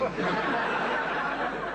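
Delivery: loud wheezing laugh at his own joke; big laugh. Real, not acted. Laughing at his friend across the table, loud laugh. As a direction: burst out laughing, breathy and high.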